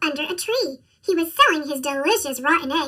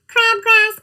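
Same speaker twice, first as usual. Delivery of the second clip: excited; 5 semitones higher, 6 dB louder than usual. Acted. Goat orders his bouquet.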